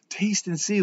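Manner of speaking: lifted emphasis. Shown as a demonstration. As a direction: lift "see" up high in "Taste and see". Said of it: "like this is tangible".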